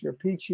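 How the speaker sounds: Peachy with ch and final ee; pronounced "Peachy". Retold or imitated. Singer listing the drummer's names, Peachy like the adjective. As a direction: stress the first syllable of Peachy. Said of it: "all these different names".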